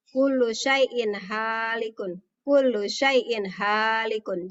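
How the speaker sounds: slow "Kullu syai'in halikun" with long a; plain n in "syai'in", then a clear h; measured recitation, distinct "halikun"; clear reading. Shown as a demonstration. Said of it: "Jadi dibacanya jelas".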